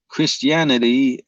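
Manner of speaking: put-on slow, drawn-out stab at a Georgian accent; Georgian accent attempt. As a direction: try a Georgian accent, stretching the word. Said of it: "try and do your Georgian accent".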